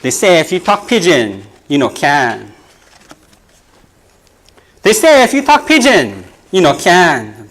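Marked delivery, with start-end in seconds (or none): 4.8-7.5 poem refrain. Shown as a demonstration. Poet opens the group poem to the crowd, declaiming. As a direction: launch the refrain like a chant. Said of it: "It's called".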